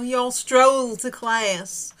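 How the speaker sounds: slow lazy Southern drawl on y'all; Southern accent. Retold or imitated. Host joking about Midwest school, Southern accent. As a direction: drawl it like a laid-back Southern kid. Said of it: "I did a Southern accent".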